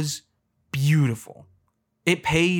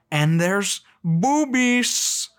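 mock pitch; 6 semitones higher, 3 dB louder, much slower than usual.

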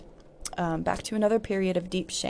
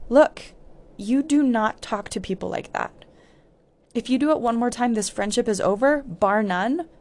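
firm warning; 4 semitones higher than usual. Retold or imitated. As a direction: lay down the law. Confronting a bullying girl.

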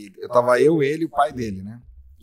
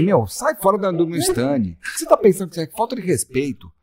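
mock angry; 5 semitones higher than usual. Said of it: "Eu falei".

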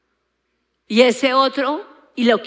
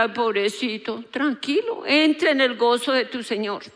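mock tender; 3 dB quieter than usual. Mock gentle lord's imagined reply.

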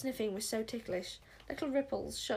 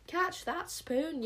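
high, slow command shout; angry yell; 8 semitones higher, much slower than usual. A narrator's reading. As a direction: yell the order after the spoon. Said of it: "yelled the witch smeller".

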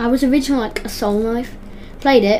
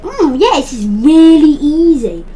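laughing; 5 semitones higher, 6 dB louder, slower than usual. Real, not acted. Laughing at overconfidence.

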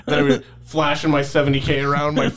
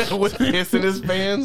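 laughing disbelief; 5 semitones higher, slower than usual. Real, not acted.

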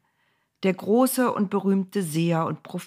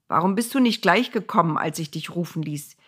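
eager king; 3 semitones higher than usual. Acted. King Balak entreats Bileam.

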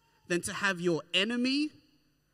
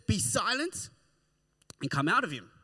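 commanding rebuke; 4 semitones higher, 3 dB louder than usual. Acted. Jesus' command voiced.

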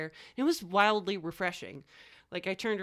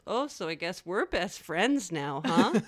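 creepy voice; 2 semitones lower, slower than usual. Retold or imitated. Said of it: "I said it creepier".

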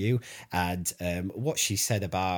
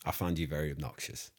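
imitated Midlands accent; 4 semitones lower, 4 dB quieter than usual. Shown as a demonstration. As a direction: mimic the co-host's Midlands accent. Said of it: "in your accent".

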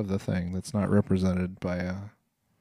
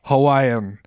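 laughing; 2 semitones higher, 9 dB louder than usual. Pretend. Mock declaration with laughter.

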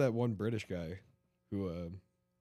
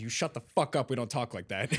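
loud, high scolding; angry lady; 3 semitones higher, 5 dB louder than usual. Retold or imitated. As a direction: snap at him like a New York lady. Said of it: "This lady walks by and says".

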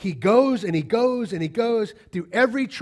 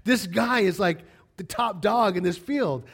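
retold shocked exclaim. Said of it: "He's like".

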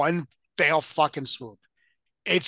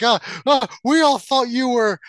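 Murtaugh impression; 8 semitones higher, 6 dB louder than usual. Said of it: "Murtaugh says".

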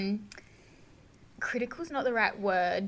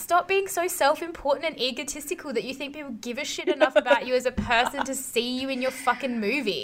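worked-up, higher-pitched tirade; ragey rant; 3 semitones higher than usual. Real, not acted. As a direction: tell him off in exasperation. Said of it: "Sorry about getting so angry".

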